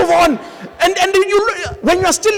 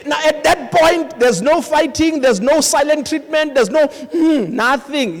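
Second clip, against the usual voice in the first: slow emphasis; 8 semitones higher, 5 dB louder, slower than usual. Acted. Slow emphatic list from pulpit.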